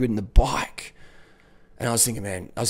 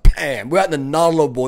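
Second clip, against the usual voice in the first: loud exclamation; 4 semitones higher, 7 dB louder than usual. Retold or imitated. Sudden realisation retold.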